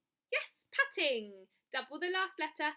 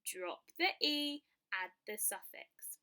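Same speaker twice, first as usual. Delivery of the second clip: slow rule reminder; 3 semitones lower, slower than usual. Shown as a demonstration.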